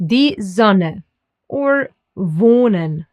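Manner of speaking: "Die Sonne" and "wohnen" with pure O, no glide; careful German "Sonne", "wohnen" for a learner. Shown as a demonstration. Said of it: "Listen to it here".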